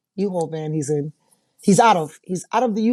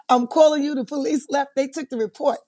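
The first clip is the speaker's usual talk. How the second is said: high-pitched imitation of an excited caller; Tyrone impression; 7 semitones higher than usual. Client reporting to his attorney by phone, high-voiced impression. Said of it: "Mister Tyrone is on my phone yelling".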